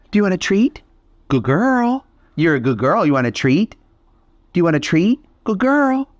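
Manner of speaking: high, sing-song praise voice rising and falling; high dog talk. Real, not acted. To a scared rescue dog, high sing-song praise. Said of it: "Let's try this".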